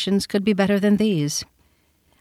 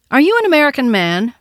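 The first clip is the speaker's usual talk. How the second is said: put-on high, loud, eager little boy; vivacious child; 8 semitones higher, 6 dB louder, faster than usual. A narrator's reading. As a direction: ask it with a lively child's directness. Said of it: "pursued this vivacious infant".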